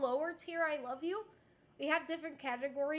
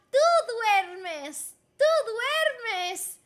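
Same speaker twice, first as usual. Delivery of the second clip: louder, emphatic model phrase; emphatic teacher demo; 5 semitones higher, 8 dB louder, much slower than usual. Shown as a demonstration. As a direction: project it to the class. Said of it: "teacher modelling conjugation".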